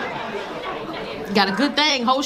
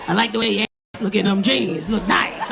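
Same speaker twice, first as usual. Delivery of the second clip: lightly voiced older suitor, lower; 4 semitones lower than usual. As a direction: mildly imitate a leering old man. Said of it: "the old men just love you".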